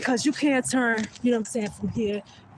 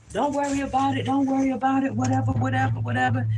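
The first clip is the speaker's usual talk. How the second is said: brushing off; 4 semitones higher, 3 dB louder than usual. Retold or imitated. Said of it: "brushing my son off".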